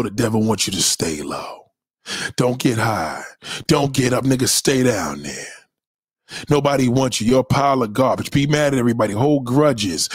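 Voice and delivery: devil voice. Retold or imitated. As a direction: whisper down at him as the devil. Voicing the devil's whispers.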